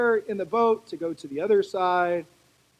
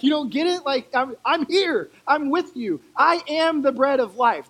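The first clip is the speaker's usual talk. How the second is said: higher, louder pleading Jesus; a touch of exasperation, insisting he is right here; frustrated Jesus; 5 semitones higher, 4 dB louder than usual. Retold or imitated. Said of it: "he's just like".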